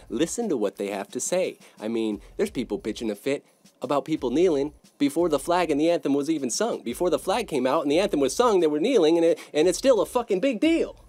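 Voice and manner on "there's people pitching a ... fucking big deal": climbing higher and louder into outrage; indignant outburst rising to a near shout; heated rant. Real, not acted. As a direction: build the rant until it boils over. Ranting about kneeling protest outrage.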